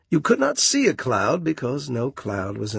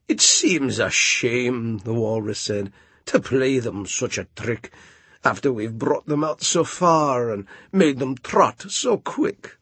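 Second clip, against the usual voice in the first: mock regretful walrus. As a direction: feign a guilty conscience. Walrus feigns remorse.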